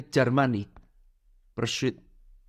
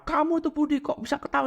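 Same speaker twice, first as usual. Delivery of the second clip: higher, puzzled scolding voice; a grumpy coworker scolding Budi for laughing; irritated coworker; 11 semitones higher than usual. Acted. (rekan kerja kesal menegur Budi dengan suara lebih tinggi)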